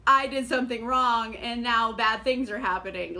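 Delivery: mock oh-no panic; mock dismay. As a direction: play the victim, a bit loud. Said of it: "baffled that".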